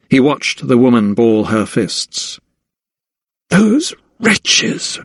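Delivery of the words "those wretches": higher, seething hiss; hissed through teeth. A narrator's reading. Mistress cursing the servants, hissing with fury. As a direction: spit it out through clenched teeth. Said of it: "she hissed through clenched teeth".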